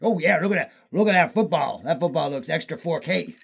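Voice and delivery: lightly voiced Southern football fan; a hint of Southern twang, mocking buyers; vaguely Southern accent. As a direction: put on a loose Southern accent. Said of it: "whatever accent this is".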